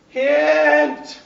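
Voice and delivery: a sudden loud shout of the single word; loud call-out. Real, not acted. Teacher flagging exam material to students, a loud shout. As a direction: bark it out to wake the room up.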